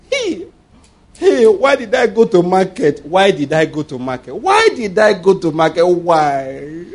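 hammed-up complaint of a pregnant woman; mock lament. Preacher imitating pregnant woman blaming the market. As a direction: wail it like a regretful woman.

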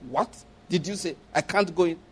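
quietly indignant challenge to the secretary; mock indignant. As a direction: act offended and brush her aside. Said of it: "the kind eye I will cut".

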